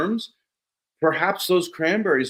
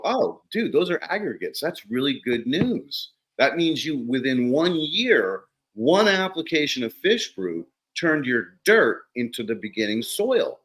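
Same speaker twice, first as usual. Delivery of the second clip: excited; 3 semitones higher than usual. Retold or imitated. Retold excited reply.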